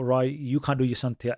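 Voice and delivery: normal talking voice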